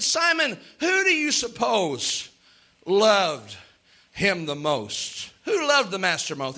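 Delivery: slow, pointed question with weighted pauses; probing question. Acted. Jesus pressing Simon with a slow, pointed question. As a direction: lean on each word to make him think.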